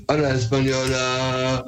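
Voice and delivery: "Hola, Española" said as a Spanish greeting; a quick Spanish hello; spoken in Spanish. Shown as a demonstration. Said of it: "Und dann erstmal auf Spanisch".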